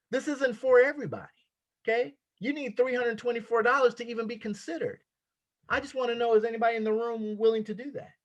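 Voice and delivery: investor pitch. Pretend. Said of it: "treat this like you have a multi-million dollar real estate project".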